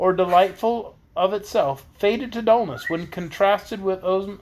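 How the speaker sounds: put-on expressive read-aloud of a children's book; story narration. A narrator's reading. Reader telling of Princess Ozma's beauty, story narration. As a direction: read the chapter out to listeners.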